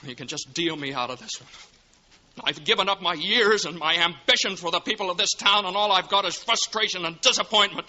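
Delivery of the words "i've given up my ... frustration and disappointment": tag only. Acted. George vents bitterness.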